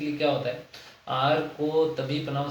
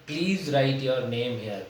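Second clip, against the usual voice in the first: slow example reading; much slower than usual. Shown as a demonstration. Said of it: "teacher reads example sentence".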